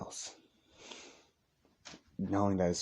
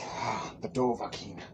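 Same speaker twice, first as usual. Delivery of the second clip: menacing whisper; 5 dB quieter than usual. Acted. Vampire recognizes hero.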